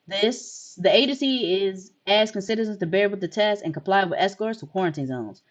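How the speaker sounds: formal anchor delivery, even and measured; news read. Acted. An anchor warning citizens about visitors, formal news read. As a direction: read it like a TV newscaster.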